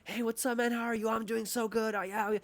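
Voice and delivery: high, breezy fake-cheery hello; a mock upbeat how-are-you voice; superficial cheerful greeting. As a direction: put on a chipper small-talk front. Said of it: "versus superficial".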